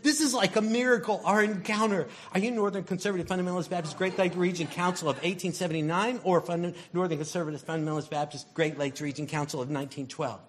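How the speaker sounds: high, fast and gushing; thrilled. Acted. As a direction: squeal with delight at each match. Excited believer questioning a stranger.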